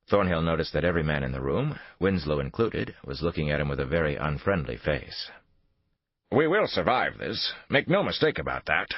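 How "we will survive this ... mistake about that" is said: encouraging. A narrator's reading. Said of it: "in an encouraging tone".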